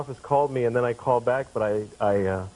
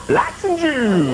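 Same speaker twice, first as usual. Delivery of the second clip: high-pitched call with a drawn-out end; public holler; 10 semitones higher, 3 dB louder, much slower than usual. Acted. Man standing on the subway platform just going for it, high loud holler. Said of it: "stand on the subway platform and just go".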